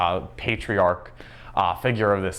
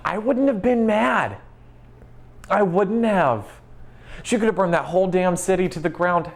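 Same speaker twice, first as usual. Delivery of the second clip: fired-up rant; 9 semitones higher than usual. Real, not acted. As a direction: rant like a betrayed fan. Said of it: "I'm fucking mad".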